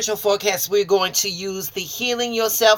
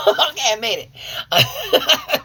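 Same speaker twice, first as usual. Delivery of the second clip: laughing relief; 5 semitones higher, slower than usual. Real, not acted. Laughing after nearly crying.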